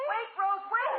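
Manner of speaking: high sobbing plea; crying plea. Acted. Helen crying to her sister to wait.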